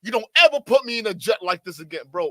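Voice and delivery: playing a spoiled celebrity throwing a tantrum; lightly voiced diva, outraged at the old jet; mock Karen rant. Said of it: "I totally Karened out".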